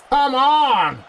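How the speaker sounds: real exasperated yell; frustrated shout. Real, not acted. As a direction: yell at the team to sort it out. Another chance missed.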